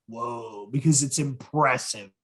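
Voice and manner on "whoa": awestruck whoa. Retold or imitated. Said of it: "you just kinda like".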